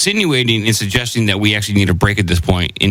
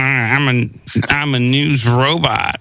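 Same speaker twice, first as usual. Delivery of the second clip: sassy, slow robot voice; 2 semitones higher than usual. Pretend. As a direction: play a robot with attitude. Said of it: "a little bit more sassy".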